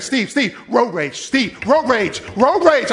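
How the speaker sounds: urgent, building to loud, high road rage; wife in the car pleading with her husband, rising to a loud alarm. Retold or imitated. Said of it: "she's like".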